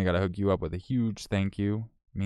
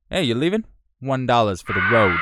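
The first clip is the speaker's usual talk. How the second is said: imitating a viewer; 3 semitones higher, 6 dB louder than usual. Viewer tipping a departing streamer, imitated teasingly. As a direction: pipe up as the cheeky latecomer. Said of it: "had to come in and say".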